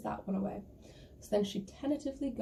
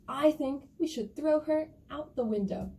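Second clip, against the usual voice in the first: higher-pitched little bear voice; littlest bear; 5 semitones higher, 4 dB louder than usual. Acted. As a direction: offer the idea in a small bear's high voice. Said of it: "And the littlest bear goes".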